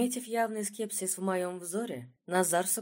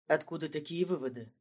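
удивлённо; 4 semitones lower than usual. A narrator's reading. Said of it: "спросил Назар удивлённо".

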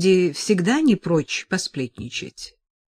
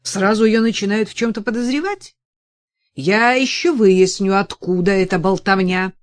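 indignant; 3 semitones higher, 7 dB louder than usual. A narrator's reading. Senator still indignant.

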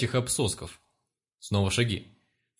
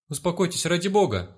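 higher panicked cry to calm him; frightened woman shouting; 6 semitones higher than usual. Acted. Nurse pleading with the thrashing patient, higher frightened cry. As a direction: beg him to calm down, scared. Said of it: "прокричал перепуганный женский голос".

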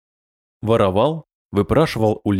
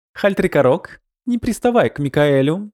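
calm voice; 6 semitones higher than usual. Acted. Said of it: "раздался спокойный голос".

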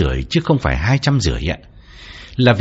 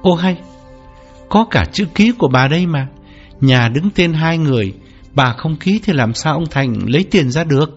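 bewildered; 4 semitones higher than usual. Acted. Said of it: "ngơ ngác bảo".

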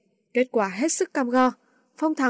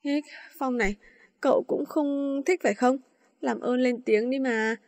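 pleading. Acted. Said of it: "Nó nhìn Phong này nỉ".

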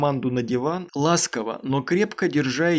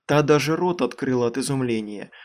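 usual speaking voice

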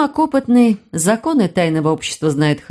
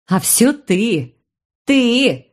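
accusing; 5 semitones higher, much slower than usual. Acted. Aini blaming her brother for the trouble, angry accusation. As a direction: blame him, each word landing harder.

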